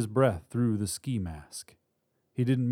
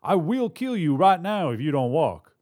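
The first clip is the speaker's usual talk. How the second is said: loud, raised-pitch menace; shouted threat; 6 semitones higher, 6 dB louder than usual. A narrator's reading. Robber to hostage on crutches, shouted threat. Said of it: "China shouted".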